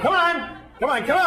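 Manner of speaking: high, pumped-up coaxing; yoga teacher cheer. Retold or imitated. Teacher urging strangers in class, high coaxing chant. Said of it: "And he's going".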